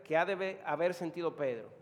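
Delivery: normal talking voice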